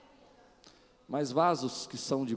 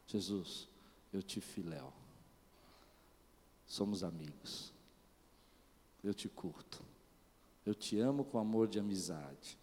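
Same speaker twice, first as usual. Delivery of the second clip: soft and low, Peter hanging his head; soft, lower, sheepish reply; subdued confession; 5 semitones lower, 5 dB quieter than usual. Retold or imitated. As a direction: answer quietly, a little ashamed. Peter answering Jesus ashamed.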